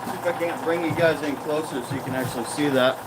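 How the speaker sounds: muffled through a mask; talking behind a face mask. Real, not acted. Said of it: "I can't talk with the mask on".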